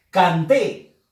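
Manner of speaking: "Canté" with the force on "té"; stress on last syllable. Shown as a demonstration. Teacher giving a vowel-ending example, stress on "té". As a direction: hit the final "té" of "Canté". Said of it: "lleva fuerza de voz es la sílaba T".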